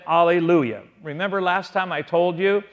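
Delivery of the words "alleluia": "Alleluia" begun on an open "ah", no H; Alleluia without H. Shown as a demonstration. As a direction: say "Alleluia" with a silent start, no H sound. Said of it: "I want you to notice I said".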